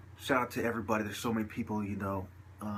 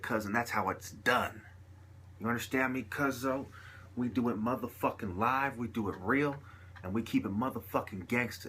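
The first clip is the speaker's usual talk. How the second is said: gangster talk; 2 semitones higher than usual. Shown as a demonstration. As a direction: slip into a hard gangster voice. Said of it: "when I feel like saying like a gangster".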